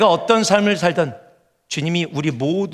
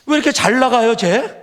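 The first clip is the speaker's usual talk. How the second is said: high, louder whiny grumbling; jealous believer's complaint; 7 semitones higher, 4 dB louder than usual. Retold or imitated. Believer to God, jealously whining about a friend. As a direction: gripe to God about someone else's luck. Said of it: "다른 사람 봐".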